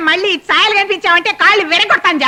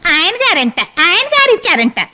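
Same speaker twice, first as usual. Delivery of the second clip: mocking echo; 2 semitones higher than usual. Mocks the maid's excuse.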